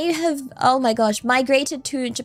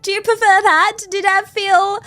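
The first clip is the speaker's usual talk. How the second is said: higher, put-on joyful voice; pitched-up playful whimsy; youthful and whimsical; 4 semitones higher, 3 dB louder than usual. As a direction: ask it in a mock-youthful lilt. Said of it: "youthful and joyful and whimsical".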